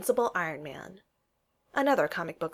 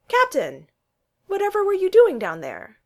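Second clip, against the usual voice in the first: much higher, louder, arch question; mock-surprised teasing; 13 semitones higher, 8 dB louder than usual. A narrator's reading. Loki teasing Steve about being under the bed, arch and high. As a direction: feign shock to needle him.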